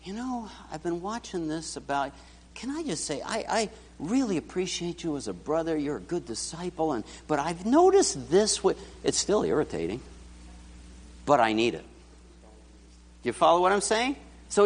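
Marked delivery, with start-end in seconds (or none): 0.0-8.6 gentle brother's advice. Retold or imitated. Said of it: "Brother Gene comes to me and he says".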